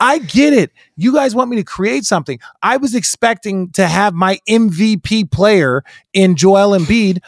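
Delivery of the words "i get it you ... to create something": coach impression. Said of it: "It's like".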